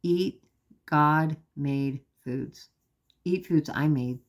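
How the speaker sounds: slow, measured retelling of God's words; unhurried, deliberate voice of gentle authority; retold divine instruction. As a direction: give calm guidance, pausing between phrases. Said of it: "The next thing he says to me".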